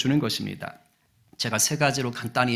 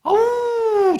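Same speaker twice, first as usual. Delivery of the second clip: high, loud mock "awww"; high-pitched teasing cry; taunting howl; 6 dB louder, much slower than usual. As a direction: whoop in exaggerated disgust. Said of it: "막 약 올리는 거예요".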